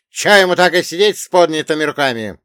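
high, loud scornful question; dwarf's yelling. Acted. Dwarf heckling the gunman, high yell. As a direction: yell it high, mocking the order. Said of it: "выкрикнул карлик".

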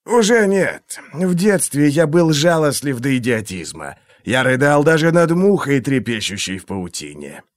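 silky, menacing interrogator; a cold torturer toying with his victim; menacing inquisitor voice. Acted. Glokta's held voice.

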